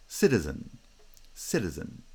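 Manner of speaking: citizen stressed at the start; strong first syllable of citizen, unstressed ending. Shown as a demonstration. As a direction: hit the opening of citizen, let the rest fall away. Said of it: "Stress is on the first syllable".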